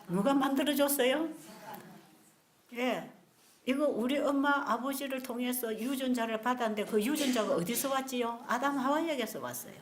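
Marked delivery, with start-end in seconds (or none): none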